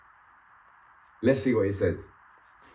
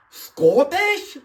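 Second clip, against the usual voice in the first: high-pitched disbelieving question; can't-believe-it query, voice shooting upward; incredulous surprise; 13 semitones higher, 3 dB louder than usual. Real, not acted. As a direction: blurt it out, pitch leaping up at the end. Reacting to his DNA result.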